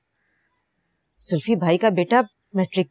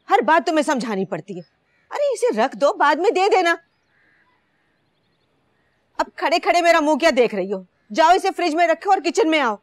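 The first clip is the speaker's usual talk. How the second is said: exasperated scolding; 6 semitones higher than usual. Acted. Mistress scolds slow maid Seema.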